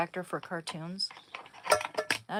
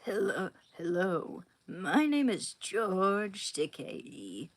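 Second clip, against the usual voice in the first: George Takei impression; slower than usual. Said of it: "I'm gonna do an impersonation of George Takei".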